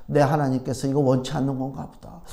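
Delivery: low, soft, discouraged muttering; subdued, giving up; mild retold frustration. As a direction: mutter your doubts to yourself. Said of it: "막 화가 나더라고".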